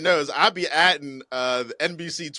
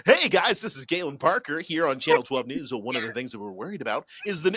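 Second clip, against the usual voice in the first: hammed-up local news anchor. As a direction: play a TV anchor greeting the viewers. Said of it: "specific television voice".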